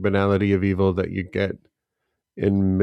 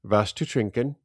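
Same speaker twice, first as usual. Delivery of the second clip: German flight attendant. Retold or imitated. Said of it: "and said".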